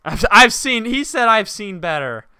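laughing through the words. Real, not acted. Player laughing at a rude game character. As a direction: laugh it out, half shocked. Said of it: "he did not just say that".

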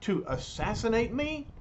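mock fright in a hurried, rising voice; afraid. A narrator's reading. Khrushchev protests as the robot shuffles toward him, afraid. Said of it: "Khrushchev is really afraid of Vanko".

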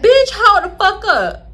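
high, loud, slow disbelieving outburst; high loud hold-up shout; shocked outburst. Retold or imitated. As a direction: stop everything, you can't believe it. Shocked reaction to photo.

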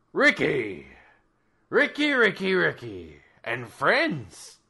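big booming god voice. Acted. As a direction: boom it through the house. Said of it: "a booming voice echo through the house".

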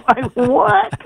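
high-pitched, drawn-out comic disbelief; mock protest. Comedian answers the casting director, hammed-up high protest. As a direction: plead it in a hammed-up high voice, through laughter.

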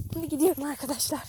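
breathless from climbing; panting while talking; out of breath. Real, not acted. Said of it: "Nefes nefese kaldım ya".

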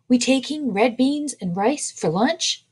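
talking through cornbread; words round a mouthful of bread; mouth full. A narrator's reading. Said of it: "her words full of cornbread".

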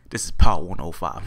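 low, loud mock station ID; radio host. Gamer testing his new mic, mock radio host. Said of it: "I sound like a radio host".

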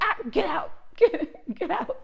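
high, loud shriek through laughter; half-laughing get-away yelp; giggling fake freak-out; laughing mock panic. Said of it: "I probably would have been like".

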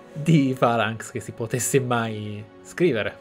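ordinary talk

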